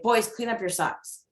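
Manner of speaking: put-on even, level "Boys, clean up your socks" with a falling end; plain order with no lift at the end; flat command. Shown as a demonstration. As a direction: mom giving the sock order as a flat demand.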